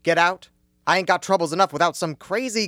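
loud, gruff order out; angry order. Acted. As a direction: throw him out loudly. Manager ordering them out.

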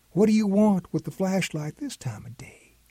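whispered mock grandma question; whispered grandma quote. Grandpa imitating grandma's question, whispered. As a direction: hush it like grandma's suspicion. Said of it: "your grandma will ask".

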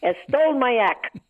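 Googie Gomez voice. Retold or imitated. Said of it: "would say".

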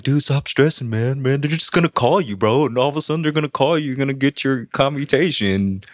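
easygoing pal telling him to relax; Edmund, the calm friend. Retold or imitated. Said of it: "And he's like".

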